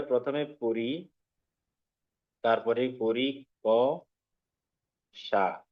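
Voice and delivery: পরি ক সা spoken slowly, syllable by syllable; broken into syllables. Shown as a demonstration. Teacher breaks the word apart for students, slow syllables. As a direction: spell out পরীক্ষা in slow separate chunks. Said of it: "এটাকে আমরা একটু ভেঙে যদি বলি".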